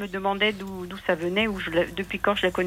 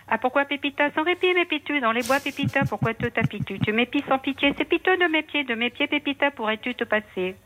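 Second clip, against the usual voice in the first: fast tongue twister; 4 semitones higher than usual. Shown as a demonstration. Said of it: "je peux vous le faire très vite".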